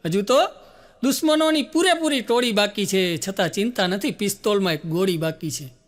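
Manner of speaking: Gujarati ghazal read with rising first lines and a dropped ending; declaim, then drop on પિસ્તોલમાં; recited poem. Acted. Comedian reciting Anil Chavda's verse to the crowd.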